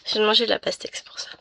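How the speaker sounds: speaking between hiccups, half-whispered; suppressing hiccups. Real, not acted. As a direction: hold back the hiccups as you talk. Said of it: "j'ai le hoquet".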